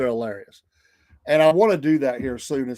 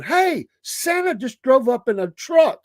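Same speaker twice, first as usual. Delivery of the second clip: high-pitched mimicked kid excitement; imitating thrilled children, drawn out; excited kids; 9 semitones higher, slower than usual. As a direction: call it out like a kid spotting Santa. Retold kids spotting Santa.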